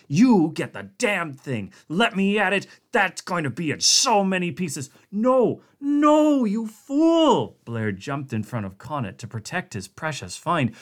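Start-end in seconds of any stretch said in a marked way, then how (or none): 0.1-4.9 loud, aggressive demand; angry threat. A narrator's reading. Connacht threatening to smash the creature, angry. 5.1-7.6 high, loud cry of no; panicked shout. A narrator's reading. Blair shouting to stop Connacht, panicked and high. Blair protects his find.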